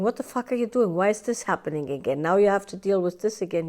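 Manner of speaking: snapping at yourself, quick and annoyed; mock exasperated self-scolding; harsh inner critic. Inner critic berating yourself, quick and annoyed. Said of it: "instead of going".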